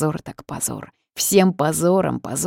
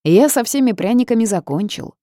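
raised voice from another room; calling out; 6 semitones higher, 5 dB louder than usual. A narrator's reading. House spirit reports through the wall, raised call. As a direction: call it out, pleased.

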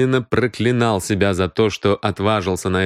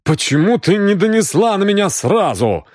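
strained, higher-pitched challenge; hoarse croak; 10 semitones higher, 3 dB louder than usual. A narrator's reading. Exposed Грегсон challenges Аврора, hoarse. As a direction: croak the question, climbing in pitch. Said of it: "прохрипел Грегсон дрожащими губами".

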